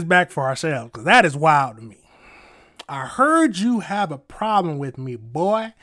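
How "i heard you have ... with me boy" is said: put-on drawn-out Southern accent. Streamer reading back a judge's alleged threat, Southern accent. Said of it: "Y'all say it in a Southern accent".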